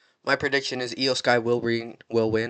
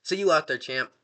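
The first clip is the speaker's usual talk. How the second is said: mock chipper high "Great" that settles down; a bright little dismissal of the champ; cheeky send-off; Danhausen voice; 4 semitones higher, 3 dB louder than usual. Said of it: "Danhausen's all".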